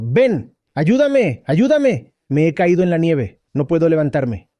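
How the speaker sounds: the fallen monk begs passers-by, half-acted shout; retold shouting for help. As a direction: play the stuck monk begging anyone to help. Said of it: "estaba gritando".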